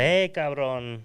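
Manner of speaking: slow, drawn-out mock greeting; mock Mexican taunt. Friends mocking a guy talking trash, slow drawl. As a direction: drawl it like a sneering local. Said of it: "they're like".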